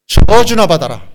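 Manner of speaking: righteous anger, acted out; acted angry curse. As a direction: hurl the curse indignantly. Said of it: "막 분노하시면서".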